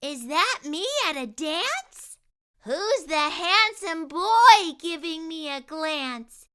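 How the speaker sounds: put-on a girl dazzled by her future; delighted girl. Jessie gazing in the mirror, delighted and high. Jessie sees herself at dance.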